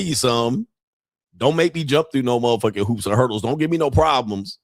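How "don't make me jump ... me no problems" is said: normal talking voice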